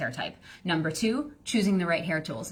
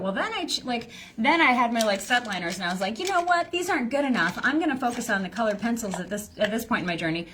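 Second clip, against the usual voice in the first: higher, chatty imitation of a student; rambling student; 3 semitones higher than usual. Imitating a student pitching with too many details, higher. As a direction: mimic someone lost in details.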